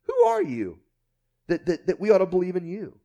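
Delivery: hammed-up disbelief, pushing back hard; indignant crowd. Crowd mocking Jesus, high indignant challenge. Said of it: "the people are saying".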